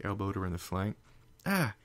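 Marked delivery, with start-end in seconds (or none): 1.5-1.8 high startled yelp; sharp yelp of surprise. Acted. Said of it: "Twilight yelped".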